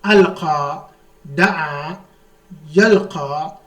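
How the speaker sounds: "Alqa, da'a, yalqa" each ending in a long alif "aa"; final alif sound. Shown as a demonstration. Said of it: "because it is pronounced as alif".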